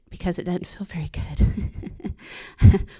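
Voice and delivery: slow hushed whisper of a confession; whispered aside. Real, not acted. To the church, a slow whispered admission. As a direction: breathe it out slowly, barely voiced.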